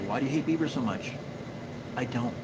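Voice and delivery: ordinary talk, nothing marked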